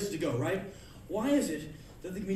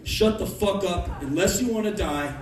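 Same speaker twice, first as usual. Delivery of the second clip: menacing threat; 6 dB louder than usual. Retold or imitated. Menacing reply.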